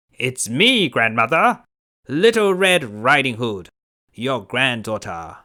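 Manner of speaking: wolf poorly pretending to be the girl; wolf faking the girl. Wolf at the door, mock girlish voice. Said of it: "pretending to be Little Red Riding Hood".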